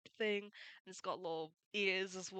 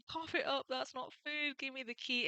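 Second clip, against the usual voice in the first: high-pitched, heated mock-angry demand; pitched-up imitation of a furious pirate; fuming Luffy; 6 semitones higher than usual. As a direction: snap at the dog to cough it up, pitched well up. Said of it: "Luffy's fuming".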